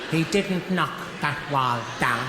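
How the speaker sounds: indignant mother. Acted. Mother defends her son.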